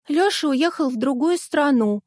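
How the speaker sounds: reassuring. A narrator's reading. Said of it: "успокаивала брата Рита".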